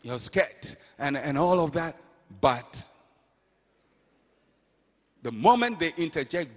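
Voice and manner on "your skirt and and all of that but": mock flattery. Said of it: "somebody looks at you and says".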